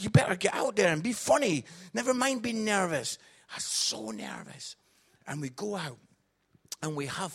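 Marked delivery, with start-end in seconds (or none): 0.0-3.2 loud, hammed-up barking dad; mock stern order. Comic mimicking dad's pep talk, mock stern order. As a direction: parody a harsh pep talk at high volume.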